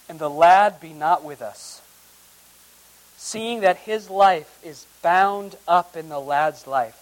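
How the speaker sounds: solemn scripture read. Acted. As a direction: read the verses like a preacher at the pulpit. Reads scripture aloud.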